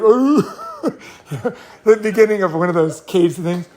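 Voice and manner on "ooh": pained ooh. Retold or imitated. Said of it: "And he's like".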